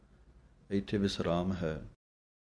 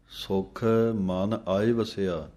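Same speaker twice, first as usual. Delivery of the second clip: ਸੁਖ set apart with a pause before ਮਨ ਆਏ ਵਸਿਆ; separate the words; slower than usual. Shown as a demonstration. Teacher showing students to pause between ਸੁਖ and ਮਨ. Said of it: "ਵੱਖਰਾ ਵੱਖਰਾ ਪੜ੍ਹਨਾ ਹੈ".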